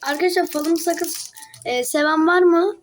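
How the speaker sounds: talking while chewing gum; words around a wad of gum. Real, not acted. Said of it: "Ben de videoda sakız çiğniyorum". (sakız çiğneyerek)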